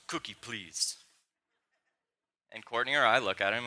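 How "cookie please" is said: put-on toddler voice. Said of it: "and he goes".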